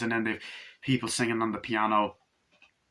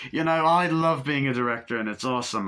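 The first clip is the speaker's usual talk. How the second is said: lightly voiced chirpy director, a touch higher; breezy mock film director, only slightly put on; a hint of a luvvie director; Eric Idle impression; 3 semitones higher, 3 dB louder than usual. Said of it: "my impression of the director sounds like Eric Idle".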